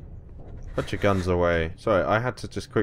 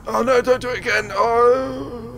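exasperated shouting; 13 semitones higher than usual. Real, not acted. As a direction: yell in frustration at the pod. Trapped, pod toggling cold.

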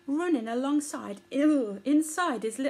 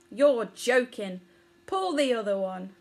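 millipede voice; 4 dB louder than usual. Acted. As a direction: drag it out, not buying it. Millipede answering Poppet.

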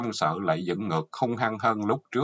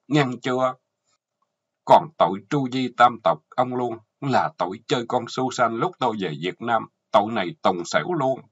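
angry accusation; 3 semitones higher, 3 dB louder than usual. Acted. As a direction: list his crimes like an indictment. Wife reads out husband's crimes. (vợ giận dữ kể tội, giọng cao hơn)

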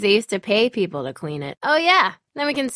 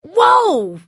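startled; 8 semitones higher, 8 dB louder than usual. Acted. Startled by someone's sudden move.

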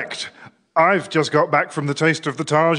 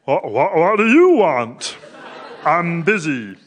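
put-on Einstein accent. Einstein asked what visitors want, in a mock Einstein accent. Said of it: "do the accent".

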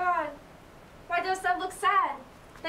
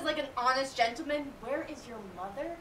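mocking the nurse; 4 semitones lower, 4 dB quieter, faster than usual. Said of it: "How oddly thou repliest".

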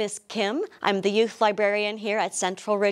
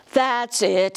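sad; 3 dB louder than usual. Acted. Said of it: "Santa said with sadness".

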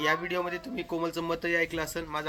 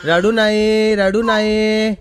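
higher, louder drawn-out hushing; soothing; 5 semitones higher, 17 dB louder, much slower than usual. Real, not acted. Father soothing his crying toddler, drawn-out coo. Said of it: "तू ये माझ्याकडे".

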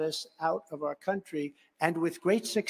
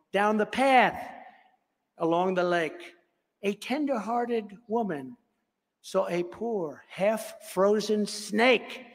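poem recitation; 3 semitones higher than usual. Acted. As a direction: read the poem to the crowd like a storyteller.

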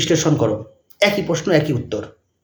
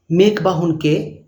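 dictating; much slower than usual. Shown as a demonstration. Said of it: "dash দিয়ে লিখবে".

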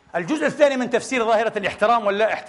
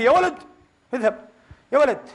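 1 mock harsh dismissal; 3 semitones higher than usual. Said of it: "ما في".

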